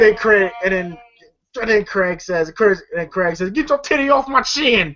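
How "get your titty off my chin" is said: high-pitched mock protest; acted protest. Film fan acting Craig squashed in a hug, high mock protest. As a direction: protest in a raised voice, playing it for laughs.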